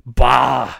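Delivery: mimicked dismissive "bah"; imitating a grumpy customer's noise; over-animated "bah". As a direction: throw out a mock grouchy "bah". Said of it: "like, that over-animated".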